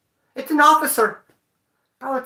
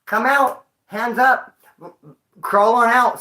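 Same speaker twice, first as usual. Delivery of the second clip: light cop command; imitating cop; 3 semitones higher, slower than usual. Showing how cops should order him out, mild command. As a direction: call him out calmly like a cop. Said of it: "Like this".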